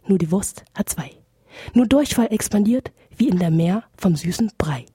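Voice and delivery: measured, rhythmic verse delivery with pointed rhymes; poetry slam recital. Acted. Guest poet performs a toilet poem for radio listeners, rhythmic slam recital. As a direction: perform a comic poem in declaimed, punchy lines.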